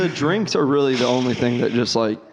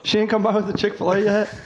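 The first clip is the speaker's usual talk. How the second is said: bossy manager voice; 8 semitones higher than usual. Acted. Acting a boss asking staff.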